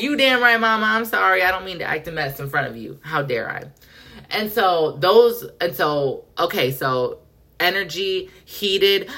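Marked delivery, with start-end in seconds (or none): 0.0-3.6 high, over-the-top apology to the star; mock groveling apology. Fan apologizing to a singer, in a high mock-groveling voice. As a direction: squeal it out like a fan caught misbehaving.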